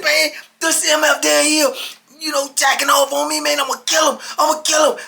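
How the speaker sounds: high, loud, worked-up voice; heated imitation of threats; retold enraged rant. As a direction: play a man beside himself with anger. Acted enraged officer complaining, threatening.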